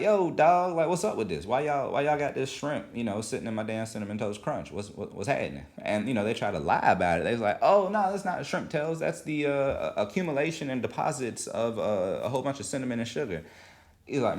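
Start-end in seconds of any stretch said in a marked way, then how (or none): 0.0-5.6 complaining customer. Retold or imitated. Dude complaining to General Mills. 7.6-13.4 much higher, sugary corporate voice that eases off; mock-innocent corporate denial, high pitched; fake company excuse. Company's lying reply voiced.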